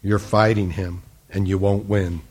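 loving admonition. Retold or imitated. Girl urging a stranger to surrender, mildly loving. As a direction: retell a kind but firm word, calmly. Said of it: "she very lovingly said".

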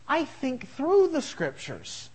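"through" drawn out and weighted, slow; stress on through. Real, not acted. Pastor stressing that he reasons, slow weighted "through". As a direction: lean slowly on "through". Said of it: "I come to logical conclusions".

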